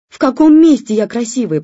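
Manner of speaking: loud, high yell; shouting. A narrator's reading. Wife keeps shouting at her husband. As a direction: fling it back at him angrily. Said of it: "продолжала кричать жена".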